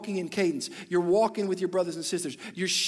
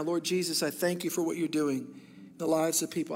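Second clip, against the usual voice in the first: prayer; 2 semitones lower than usual. Acted. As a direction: pray over them gently and sincerely. Pastor prays over congregation.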